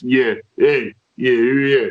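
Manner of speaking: a light Stallone-like prison tough guy; prison tough-guy talk. Acted. Comic showing how prisoners end up talking, prison tough-guy talk. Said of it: "gaining that short two to three syllable sentence".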